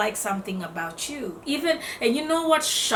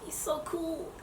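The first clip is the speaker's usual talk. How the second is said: hyping up a dude; 9 semitones higher, 6 dB quieter than usual. Pretend. If you're a guy.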